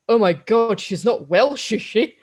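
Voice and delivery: Stephen Fry's Melchett. Retold or imitated. Quoting general hearing about his fiancee, mock aghast. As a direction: imitate an aghast general, amused. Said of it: "And Stephen Fry goes".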